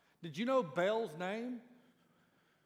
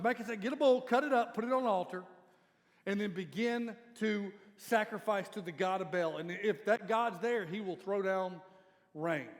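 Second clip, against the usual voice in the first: mock challenge; 2 semitones higher, 6 dB louder than usual. Elijah daring Baal's prophets, loud mocking challenge. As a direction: lay down the dare boldly. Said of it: "looks at the prophets of Baal and goes".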